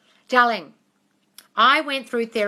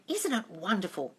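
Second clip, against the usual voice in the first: quiet, softer first take of "Isn't it wonderful?"; soft murmured affirmation; 7 dB quieter than usual. Shown as a demonstration. Showing viewers the affirmation, first said quietly. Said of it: "You just keep saying".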